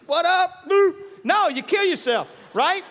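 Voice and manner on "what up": cocky greeting, higher and louder; a confident walker in the dark; confident swagger. Retold or imitated. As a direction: strut in and greet casually. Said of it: "Nobody's like".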